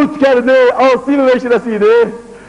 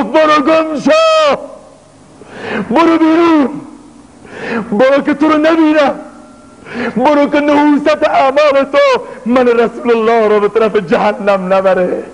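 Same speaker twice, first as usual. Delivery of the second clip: raised, stern voice sending him away; stern dismissal; 5 semitones higher than usual. Acted. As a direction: banish him with force. Prophet drives the sinner away.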